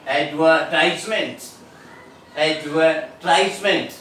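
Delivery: advertisement with the stress on TISE, ad-ver-TISE-ment; American Advertisement, ad-ver-TISE-ment, said slowly. Shown as a demonstration. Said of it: "American English".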